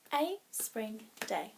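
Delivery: slow, separated words, one beat each; counting syllables. Shown as a demonstration. Teacher counting the title's syllables for the class, slow and separated. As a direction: break it into separate syllable beats. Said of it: "think about the syllables in the title".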